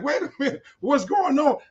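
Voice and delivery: mock bewilderment. Officers puzzled mid-roundup, mildly mimicked bewilderment. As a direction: lightly imitate someone caught off guard. Quotes surprised officers at a raid.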